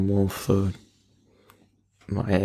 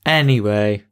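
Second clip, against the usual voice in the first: voice break. Real, not acted. Host tries to move the podcast on, voice breaking. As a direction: voice cracking mid-word. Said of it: "I had a voice break then".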